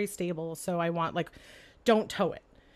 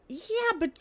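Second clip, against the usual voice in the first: retold exasperated lecture; 7 semitones higher than usual. Retold arguing with the date.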